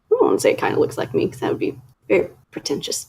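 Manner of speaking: near-whispered, embarrassed; half-hide it, shy about it; sheepish aside. Real, not acted. Admitting her icon looks like her, in a sheepish near-whisper.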